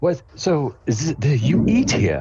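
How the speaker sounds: put-on stuffy old British man. Narrating the listener's dad asking a question, stuffy old british man voice. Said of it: "stuffy old British dude kind of vibe".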